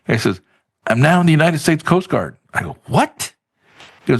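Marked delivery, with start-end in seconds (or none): 0.9-2.4 high-pitched imitation of a thrilled friend; excited announcement. Friend announcing he joined the Coast Guard, excited. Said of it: "he called me up one time all excited". 2.9-3.3 very high-pitched, acted-out disbelief; astonished. Replaying his reaction to the friend's news, astonished.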